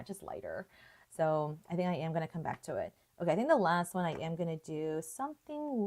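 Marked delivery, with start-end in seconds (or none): 0.0-0.7 "just lighter" repeated much softer; quiet echo. Shown as a demonstration.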